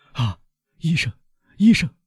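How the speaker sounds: sudden high cry for the doctor; loud cry. A narrator's reading. Servant crying out to the doctor, high and loud. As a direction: call out in alarm, pitch climbing. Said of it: "巴鲁瓦大声说".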